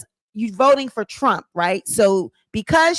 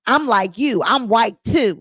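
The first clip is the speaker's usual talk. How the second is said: mock eager voice; 2 semitones lower than usual. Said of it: "So it's supposed to be like".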